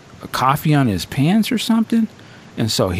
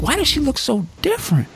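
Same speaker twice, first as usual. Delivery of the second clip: I was like; 11 semitones higher than usual. Retold or imitated. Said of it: "I was like".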